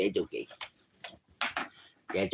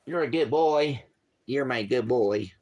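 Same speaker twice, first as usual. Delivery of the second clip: high, louder praise; dog praise voice; 7 semitones higher, 5 dB louder than usual. Real, not acted. Man praises his dog in a high loud voice. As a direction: lift the voice for the dog.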